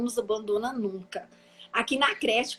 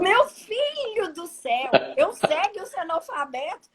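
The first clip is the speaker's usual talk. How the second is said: laughing panic; 6 semitones higher than usual. Retold or imitated. Jerônimo begs the illiterate driver, high and laughing. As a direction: plead in mock despair, laughing through it.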